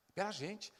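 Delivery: ordinary delivery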